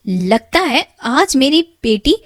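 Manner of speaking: loud angry stepmother. Acted. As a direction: drive the girl out in a rage. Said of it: "बड़े गुस्से में मीना से कहती है".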